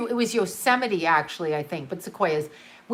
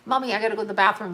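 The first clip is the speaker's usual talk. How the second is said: put-on whiny child; much faster than usual. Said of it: "like this".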